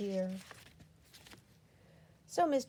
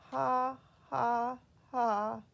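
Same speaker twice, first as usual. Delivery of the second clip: unhappy; 3 semitones higher, 4 dB louder, much slower than usual. A narrator's reading. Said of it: "she said unhappily".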